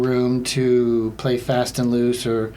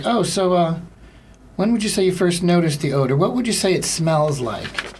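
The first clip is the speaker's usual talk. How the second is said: hotline operator; 5 semitones higher than usual. Acted. Acts odor hotline operator.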